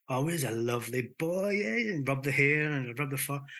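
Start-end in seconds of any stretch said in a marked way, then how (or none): 0.1-1.9 playfully cooing to a dog; silly pet talk. Acted. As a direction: act out fussing over a pet. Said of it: "do something silly like".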